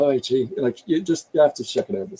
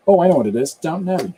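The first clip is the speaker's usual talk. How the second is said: sudden recall; 6 semitones higher, 6 dB louder, much faster than usual. Real, not acted. Suddenly remembers the example.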